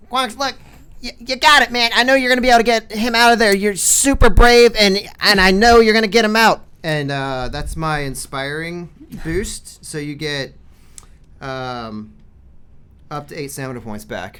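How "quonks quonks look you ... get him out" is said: very high, very loud, shrill, rushed character voice. A player speaks in character to Quonks as an inspiring boost, put-on character voice. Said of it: "I'm not even doing my voice".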